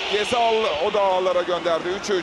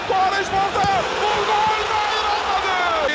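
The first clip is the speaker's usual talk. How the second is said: excited commentary; 7 semitones higher than usual. Real, not acted. Chance missed.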